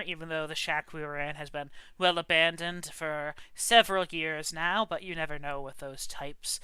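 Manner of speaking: easygoing storyteller telling of the witch; a hint of a folksy old-timer spinning his tale; lightly voiced folksy traveler. Traveler telling the party his tale, lightly folksy. GM narrates as NPC.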